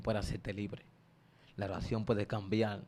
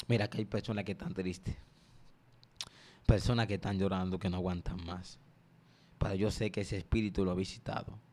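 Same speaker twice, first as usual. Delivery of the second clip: rebuking prayer that swells on suelta; 2 semitones lower than usual. Acted. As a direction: pray over the listeners, pleading. Leads a prayer.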